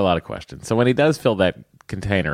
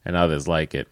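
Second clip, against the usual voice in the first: put-on Boston accent. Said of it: "read it with a Boston accent".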